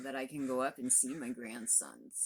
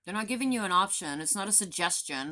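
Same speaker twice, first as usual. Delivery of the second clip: loud and higher, hammering it home; emphatic shout; 5 semitones higher, 8 dB louder than usual. Real, not acted. Vlogger insisting the mask sign is mandatory, loud raised voice. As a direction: bark the rule at them.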